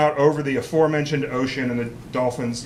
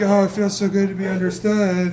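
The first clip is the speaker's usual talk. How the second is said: blissful reply; 5 semitones higher than usual. Retold or imitated.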